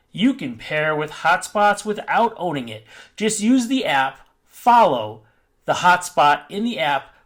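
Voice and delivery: measured customer support read-out. Pretend. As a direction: recite the instructions as a support agent would. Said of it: "my, um, support voice".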